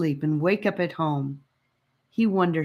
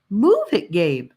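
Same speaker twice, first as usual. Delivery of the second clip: yelled; 3 semitones higher, 6 dB louder than usual. Acted. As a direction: snap at him to hurry. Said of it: "she wanted to yell at him".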